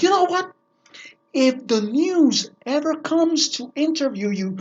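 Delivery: a hammed-up stern teacher snapping at the class; mock angry teacher. Drama teacher scolding her students, mock angry. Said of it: "And she said".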